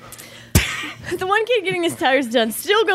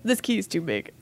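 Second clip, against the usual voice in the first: quoted clerk; 8 semitones lower, 8 dB quieter than usual. Retold or imitated. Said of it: "And the guy's like".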